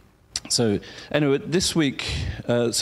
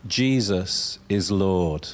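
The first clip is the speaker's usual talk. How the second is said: inner conviction; 3 semitones lower, much slower than usual. Shown as a demonstration. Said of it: "say it with inner conviction".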